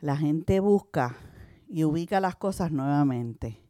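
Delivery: prédica pausada y enfática; predicación. Acted. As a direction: exhorta a la iglesia con calma firme. Predica a la congregación. (predicadora exhorta a la congregación a quitar su piedra, pausada)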